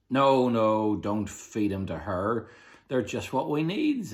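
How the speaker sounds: captain overruling his crew; gruff captain's order. A narrator's reading. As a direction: stop them like a bossy pirate chief.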